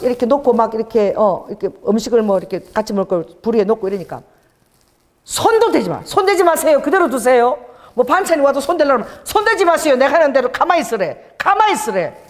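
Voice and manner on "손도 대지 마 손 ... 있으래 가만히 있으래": higher-pitched, insistent ordering about; bossy retold orders. Restaurant owner telling guests not to touch anything, bossy. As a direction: mimic someone forbidding any touching.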